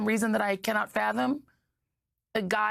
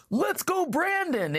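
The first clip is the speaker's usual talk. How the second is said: mock scream; 9 semitones higher, slower than usual. Commentator mimicking people who cheered two weeks ago, mock scream. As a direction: imitate a chant without really screaming. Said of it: "two weeks ago were screaming".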